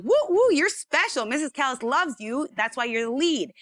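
high, bright cheering that falls back down; playful self-praise; mock cheerful voice. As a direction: cheer yourself on like a giddy kid. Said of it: "my positive thought voice was saying".

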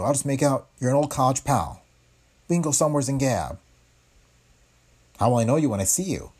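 put-on high, brassy gangster's girl voice; tough-talking moll. Tipster woman on the phone to the reporter, high moll voice. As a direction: lean in like a streetwise dame with a secret.

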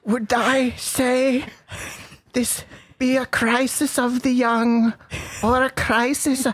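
put-on slow, grave old British voice; ponderous olde English questioner; medieval voice. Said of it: "let you do your medieval voice".

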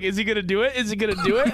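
giggling anticipation. Retold or imitated. Retelling anticipation, laughing.

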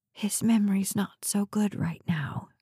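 hushed, confidential whisper. A narrator's reading. Nurse taking visitor aside about the patient, whispering. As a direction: whisper it discreetly, barely voiced. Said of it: "she whispered".

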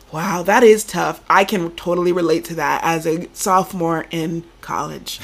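lightly voiced fake sympathy; a caller faking empathy with a struggling donor; mock sympathetic caller. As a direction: agree with everything, chirpy and hollow. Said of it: "role play".

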